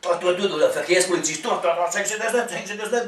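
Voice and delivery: lightly voiced guard shouting orders; a hint of a bossy traffic cop; security guard voice. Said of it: "wie ein Wachmann, ne? ... oder Verkehrspolizist".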